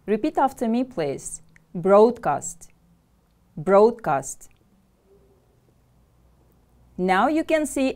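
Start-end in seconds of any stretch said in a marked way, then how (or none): 1.7-4.5 "Broadcast" with firm weight on BROAD; stress on first syllable. Shown as a demonstration. Teacher has class repeat after her, "Broadcast" stressed on BROAD. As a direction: lean on BROAD in "Broadcast", then fall away. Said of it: "Stress is on the first syllable".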